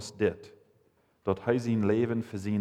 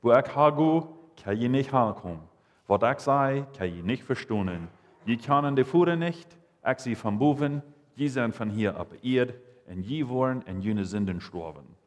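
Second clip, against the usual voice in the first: the unbeliever's words; 2 semitones higher than usual. Acted. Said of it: "so redet heute der Agläubige".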